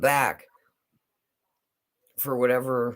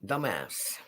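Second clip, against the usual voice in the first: mock whisper; 5 semitones lower, 9 dB quieter than usual. Insult after Dummkopf.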